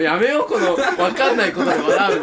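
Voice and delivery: words broken by real laughter; laughing. Real, not acted. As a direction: still laughing while talking.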